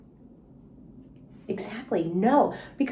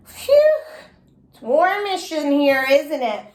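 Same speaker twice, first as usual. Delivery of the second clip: put-on nervous little girl; 4 semitones higher, 4 dB louder, slower than usual. Sweating Junie fakes calm.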